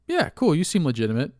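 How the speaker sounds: high, breezy, trusting welcome; gullible victim. Retold or imitated. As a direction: play the easily fooled mark waving the scammer in. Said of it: "And you're like".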